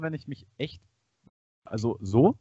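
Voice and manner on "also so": louder. Real, not acted. Testing louder mic level.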